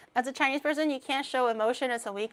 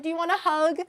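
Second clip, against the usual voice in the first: higher-pitched caring question; tender offer; 6 semitones higher than usual. Acted. Offering a crying friend a hug, tender. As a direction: offer comfort sweetly. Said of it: "And then it's like".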